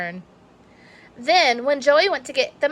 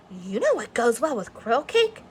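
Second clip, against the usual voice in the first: sly offer. Acted. Amanda offers treat.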